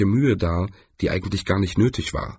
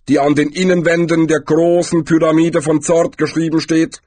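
lightly voiced figure of Death, measured; Death, emphatic; 9 semitones higher, 5 dB louder than usual. A narrator's reading. Death cites an ancient prophecy, emphatic. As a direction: explain with a touch of solemn certainty.

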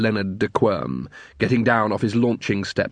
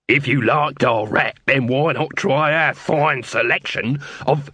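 salesman pitch. Acted. Dibbler's slow pitch.

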